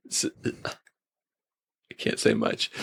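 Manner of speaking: hushed, slow and low, keeping a secret; secretive whisper. Real, not acted. Cohost teasing the newcomer with a withheld spoiler, whispered. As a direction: whisper it like a spoiler you can't share.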